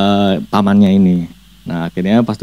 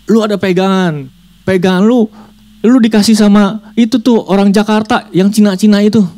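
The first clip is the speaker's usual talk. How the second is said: demon voice; 10 semitones higher than usual. Acted. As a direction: point the finger. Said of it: "dia bilang".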